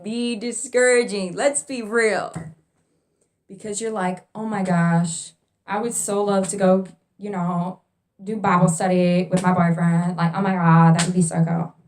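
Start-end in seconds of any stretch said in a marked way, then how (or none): 4.3-11.7 put-on gushing valley girl voice, louder. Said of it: "I'm sounding like a valley girl".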